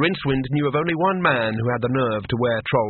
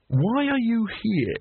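high nervous voice; 9 semitones higher, much slower than usual. Acted. Rincewind asks, drawn out.

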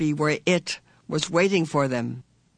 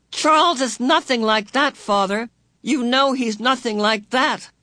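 desperate pleading; 8 semitones higher, 5 dB louder than usual. A narrator's reading. Meg desperately pleads with father.

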